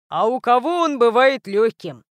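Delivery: a burly creature grumbling a question; big guy rumbling; Grok's voice. A narrator's reading. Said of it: "вопросил Грок".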